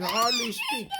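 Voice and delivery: squeaky laughing line. Acted. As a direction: burst into high laughter. Mini explains, laughing.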